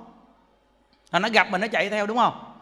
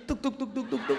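rooster clucking imitation; 7 dB quieter than usual. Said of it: "nó kêu".

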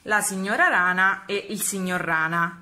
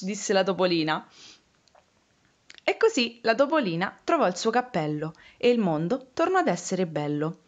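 put-on lively storytelling for small children; story narration. Reading a picture book about frogs and a lost hat, storytelling voice. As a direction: read the tale expressively, giving each figure a lift.

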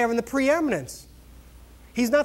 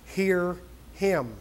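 voice from heaven; 3 semitones lower, 5 dB quieter, slower than usual. Retold or imitated. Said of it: "the voice came from heaven and said".

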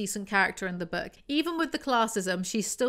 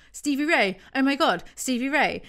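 louder, higher exclamations, each one punched; hammed-up gasping alarm at a discovery; shocked realisation; 5 semitones higher, 5 dB louder than usual. Jack realising Stevie Ray is involved, shocked exclamation.

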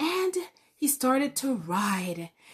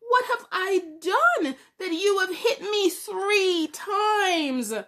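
lightly voiced donkey, a bit higher and pleading; a hint of a hurt donkey; 5 semitones higher than usual. Talking donkey pleading with Balaam, lightly voiced and higher. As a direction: gently ask why you were beaten. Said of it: "And the donkey said".

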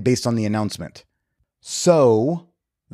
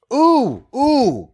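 excited ooh; 13 semitones higher, 4 dB louder than usual. Real, not acted. Sudden idea strikes him.

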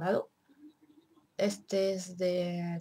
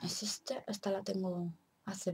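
whisper; 7 dB quieter, slower than usual. Real, not acted. Quietly pointing out the bottle.

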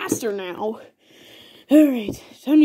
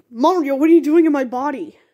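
startled, indignant question, pitch a little raised; 2 semitones higher, 4 dB louder than usual. Acted. Body-swapped character confronts Mario, startled. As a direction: demand an explanation in alarm.

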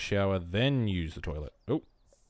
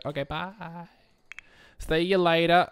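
higher and louder, sing-song farewell; called-out goodbye; 9 semitones higher, 4 dB louder than usual. Acted. Voicing a Sim calling goodbye to the departing guest, loud and bright. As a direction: call it out across the room.

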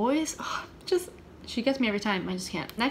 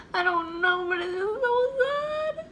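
tearful; 10 semitones higher than usual. Real, not acted. Moved by sad song.

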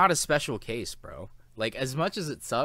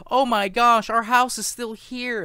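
much higher and louder, slowed and squealing with delight; gushing relief; 12 semitones higher, 9 dB louder, slower than usual. Retold or imitated. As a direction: squeal it like a returning rich family overjoyed. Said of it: "They're like".

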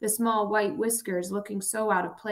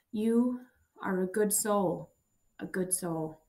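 thin raspy voice; slower than usual. Acted. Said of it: "His voice was thin and raspy".

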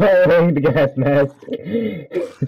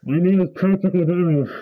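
muffled behind a rubber mask; words smothered by a mask; through a gas mask. Real, not acted. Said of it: "I can't even, like, translate that".

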